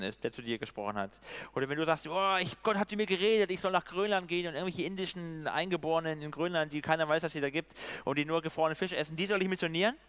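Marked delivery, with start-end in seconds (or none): 2.1-10.0 lightly hammed-up, eager rush of a convinced believer; mock-excited believer. Preacher voices a listener claiming a call to Greenland, mock-excited. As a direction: gush it out in mock awe. Acts out an overexcited would-be missionary.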